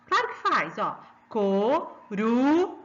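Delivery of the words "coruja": coruja very slowly, RU long and strong; slow co, RU, ja, weight on the middle; stress on middle syllable. Shown as a demonstration. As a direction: stretch coruja into syllables and raise RU. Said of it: "Você fala mais alto o ru".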